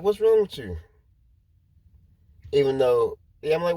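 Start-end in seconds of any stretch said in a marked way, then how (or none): 0.0-0.8 high, startled "what's wrong" to a crying coworker; concerned surprise. Retold or imitated. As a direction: ask it high and alarmed, much higher than your own voice.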